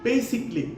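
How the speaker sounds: basically in three syllables, "BAY-sik-lee"; high "BAY" opening basically; correct pronunciation. Shown as a demonstration. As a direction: model basically with no extra syllable before "lee". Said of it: "আবার same ওয়েতেই".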